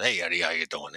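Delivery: a hint of a boss's voice; George Duke. Detective prank-calling Eddie as the captain, lightly imitated. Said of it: "the best time he ever imitated him".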